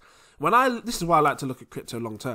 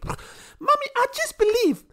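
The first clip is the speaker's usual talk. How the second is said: put-on much higher, nervous little-boy voice with a giggle. Son answering his Nigerian mum, high and nervous. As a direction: squeak like a cornered child. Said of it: "When you got a half Nigerian mum".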